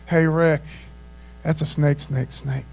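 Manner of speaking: low, stunned warning to a friend; mock dread. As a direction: drop the pitch as if facing Godzilla. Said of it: "if it was like Godzilla monster snake".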